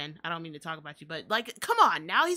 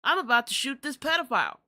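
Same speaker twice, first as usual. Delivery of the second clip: mock caller; 4 semitones higher, 4 dB louder than usual. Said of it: "being like".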